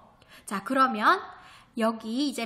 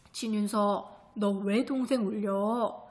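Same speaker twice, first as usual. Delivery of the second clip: stern father; 2 semitones lower, slower than usual. Acted. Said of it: "하고 큰 소리를 내셨다".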